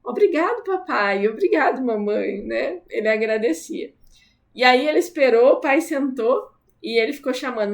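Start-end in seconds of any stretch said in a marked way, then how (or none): 0.0-2.4 a hint of a little kid saying thank you; imitated grateful child. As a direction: sing it out lightly like a small child. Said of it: "ele falava assim".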